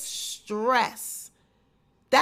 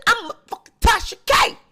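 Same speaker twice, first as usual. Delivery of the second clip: proud boast; 8 semitones higher, 4 dB louder, faster than usual. Retold or imitated. Same boast said twice.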